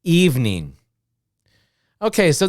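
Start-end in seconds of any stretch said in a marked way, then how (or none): 0.0-0.8 evening squeezed to two syllables, EVE-NING. Shown as a demonstration. Teacher models the quick American form. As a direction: drop the middle vowel of evening. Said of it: "two sounds".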